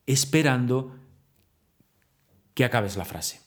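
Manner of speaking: long suspenseful pauses that leave them hanging; exaggerated pauses. Shown as a demonstration. Teacher demonstrating suspense to the audience with long dramatic pauses. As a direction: stop mid-sentence and make them wait. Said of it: "lo he exagerado muchísimo".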